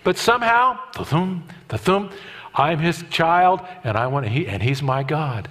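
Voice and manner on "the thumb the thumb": thump sound. Shown as a demonstration. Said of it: "The thump".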